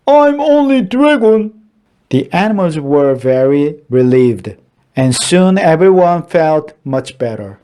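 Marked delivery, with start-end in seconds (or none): 0.1-1.5 dragon's voice. A narrator's reading. Dragon telling the frightened animals he's harmless, earnest. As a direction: reassure them, a bit hurt. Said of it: "said Dragon".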